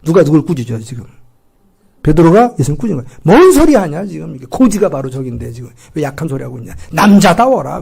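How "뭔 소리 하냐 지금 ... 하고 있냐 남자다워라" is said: a loud rebuke, told to man up; scolding angrily. Acted. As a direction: chide Jesus like an angry friend. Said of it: "화를 내고 꾸짖는 거예요".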